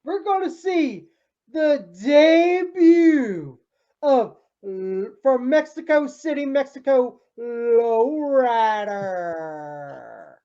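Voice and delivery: drawn-out, stretched ring announcer call; ring announcer intro. Pretend. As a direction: drag out the name like a ring announcer. Announcing the wrestler's debut.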